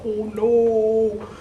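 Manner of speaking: high little cry of dismay; a girl's startled "oh no"; dismayed princess. Acted. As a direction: gasp it out, upset. Princess sees ball fall.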